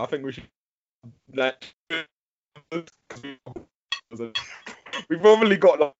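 robotic breakup on a bad line; choppy robot-like connection; robotic glitchy audio. Real, not acted. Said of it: "You went very robotic".

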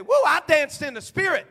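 high, loud sing-song boast; mock churchy whoop. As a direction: ham up a worshipper bragging. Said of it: "people say".

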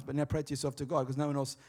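softened, private delivery; low-volume aside about private prayer; not really loud. Shown as a demonstration. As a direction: keep it down, as if to yourself. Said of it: "So I won't say it really loud".

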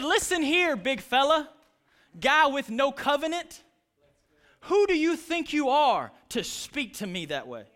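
loud, high-pitched confrontation; acted defiant challenge. Young David confronting the giant with no covenant, loud defiant challenge. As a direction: square up to a bigger foe, loudly.

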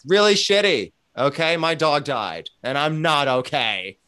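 high, loud blurt of a rotten day; honest venting answer. Acted. Answering how you doing, loudly venting about a dead dog.

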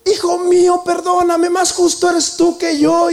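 high, loud, slowed plea; súplica de perdón; pleading for forgiveness. Acted. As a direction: Saul humbles himself before David. Saul begs forgiveness.

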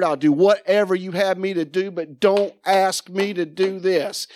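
pleading prayer. Retold or imitated. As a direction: beg God to spare him. Retold tearful prayer to God.

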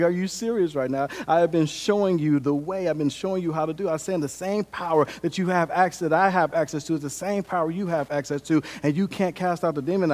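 frustrated. Retold or imitated. Jesus chides disciples who can't cast out demons, mildly frustrated. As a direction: mildly voice an upset teacher's disbelief. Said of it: "He is frustrated".

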